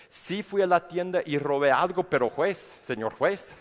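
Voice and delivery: a caught thief pleading with the judge; mock plea to a judge. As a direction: beg the judge half-jokingly. Pleading to judge after theft.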